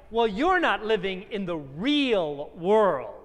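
slow, mock scorn; lightly acted scorn, taking it slowly; scornful. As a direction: imitate a scoffer from the city, drawn out. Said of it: "we heard that scorn".

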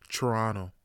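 Toronto said like a local, T's dropped. Shown as a demonstration. Showing the right Toronto, Tranna. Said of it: "That's how you say it".

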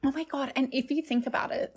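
talking mid-sip of wine; words around a sip of rosé; mouth full. Real, not acted. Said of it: "sorry, I just had a slurp of my rosé".

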